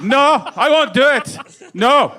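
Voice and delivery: high, mock-defiant impression; refusing actor. Actor refusing the director a scene, high mock defiance. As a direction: pitch it up in a put-on stubborn refusal. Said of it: "I think he said".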